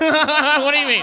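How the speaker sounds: cracking up while repeating the line; laughing exclamation. Retold or imitated. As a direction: burst out laughing at your own dodge. Repeats his reply, louder, laughing.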